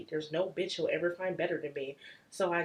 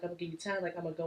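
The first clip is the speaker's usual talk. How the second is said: nonchalant; 4 dB quieter, much faster than usual. Retold or imitated. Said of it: "he's really nonchalant".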